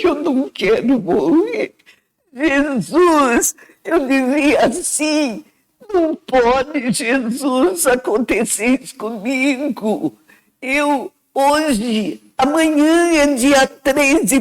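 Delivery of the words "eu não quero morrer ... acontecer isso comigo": tearful pleading to Jesus; crying plea. Retold or imitated. Patient on the operating table begging Jesus, crying. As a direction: break into tears while begging not to die. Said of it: "Aí eu desandei a chorar".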